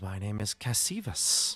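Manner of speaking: hissing snake voice, stretching and rolling every S. A game master voices a snake creature giving its name, Cassivus's hissing snake voice. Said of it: "he lets that S roll like a classic snake would".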